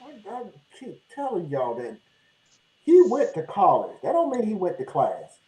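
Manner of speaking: distant, tinny mic sound; tin can sound. Real, not acted. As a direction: voice from far away in a can. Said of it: "you sound like you're in a tin can".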